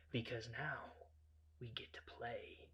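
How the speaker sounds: soft, slow, near-whispered threat; hushed, deliberate menace; quiet menace. Retold or imitated.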